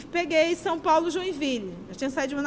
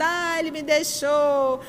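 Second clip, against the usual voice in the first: mock complaining. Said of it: "aí você vai ficar reclamando".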